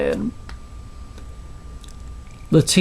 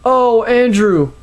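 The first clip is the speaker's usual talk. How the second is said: high, louder, drawn-out cry of a name; hammed-up rapturous shriek; ecstatic scream; 8 semitones higher, 4 dB louder, slower than usual. A narrator's reading. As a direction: cry out in slow, pitched-up ecstasy. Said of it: "she screamed".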